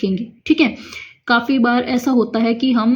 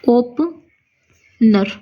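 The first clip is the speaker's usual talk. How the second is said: very slow dictation; much slower than usual. Shown as a demonstration. Teacher writes the word for students, very drawn out. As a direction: draw ओपनर out, each syllable long and slow. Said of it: "इस तरीके से".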